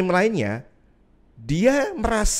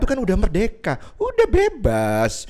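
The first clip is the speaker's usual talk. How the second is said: tempter's voice; 4 semitones higher than usual. Retold or imitated. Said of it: "ini salah satu modus operandinya".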